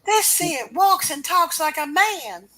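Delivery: spooky rumor-teller; eerie voice. Acted. Ominous comic caption voice.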